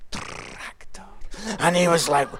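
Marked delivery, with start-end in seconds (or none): 0.1-1.0 Scottish showpiece word, rolled r; Scottish accent. Shown as a demonstration. Young Scot performing for a pastor, showy Scottish accent. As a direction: roll out a Scottish "Tractor". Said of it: "Canadians love the Scottish accent".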